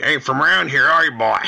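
mock Southern redneck menace; hammed-up Southern redneck. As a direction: sneer it like a suspicious country sheriff. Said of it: "love the redneckedness".

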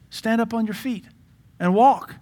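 high, loud command to rise; commanding shout. Acted. Paul commanding the crippled man to stand and walk, shouting. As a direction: order the cripple to his feet. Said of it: "he looks at him and says".

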